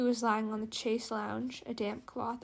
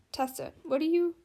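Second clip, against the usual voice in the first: puzzled Charlotte; 5 semitones higher, 4 dB louder than usual. A narrator's reading.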